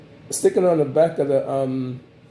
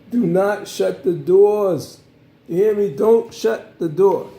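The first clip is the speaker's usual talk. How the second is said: loud, slow, emphatic warning; stern warning; 5 semitones higher, 4 dB louder, slower than usual. Acted. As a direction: lay down the rule firmly and slowly. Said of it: "especially when you get in a cab".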